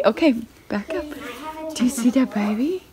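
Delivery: usual speaking voice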